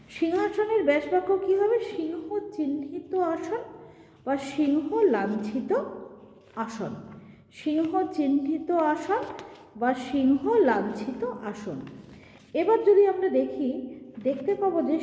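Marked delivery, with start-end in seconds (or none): 1.8-11.7 slow, spelled-out dictating pace; unhurried teacher dictating the phrase; slow dictation. Shown as a demonstration. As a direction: say it slowly so students can write it down. Teacher dictating the example slowly.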